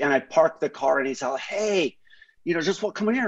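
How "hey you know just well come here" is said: higher, breezy reassurance; mock carefree Hoff. Mimicking Hoff urging the Camry onto the dirt, breezy and higher. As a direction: wave off the danger in a higher voice.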